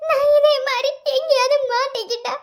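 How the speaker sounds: crying and begging through tears; sobbing plea. Acted. Pregnant girlfriend begging Kavin to come back, sobbing. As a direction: sob out the plea to come home.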